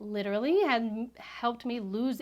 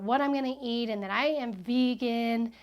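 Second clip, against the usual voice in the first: retold loud announcement; 4 dB louder than usual. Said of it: "she starts to loudly talk about".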